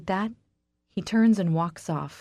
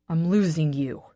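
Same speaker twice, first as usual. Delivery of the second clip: roared; 3 dB louder than usual. Acted. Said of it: "he roars".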